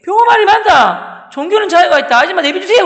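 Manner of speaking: loud, high cry of support; rallying classmates' shout. Retold or imitated. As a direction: shout like a class backing its friend. (반 친구들이 편들며 외치듯)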